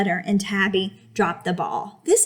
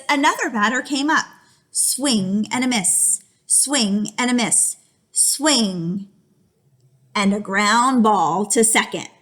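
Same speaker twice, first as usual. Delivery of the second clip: slow, lively read-aloud; story reading; slower than usual. A narrator's reading. Teacher reading the batting to the class, slow and lively.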